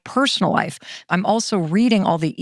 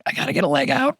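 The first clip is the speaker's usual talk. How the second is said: higher fretting thought; 5 semitones higher, much faster than usual. Pretend. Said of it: "This is what my thoughts used to sound like".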